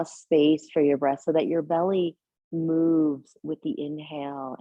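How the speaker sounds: gentle meditation guidance with long pauses; unhurried, settled yoga-teacher voice, leaving space between phrases; guided meditation. Real, not acted. Leads a seated breathing meditation.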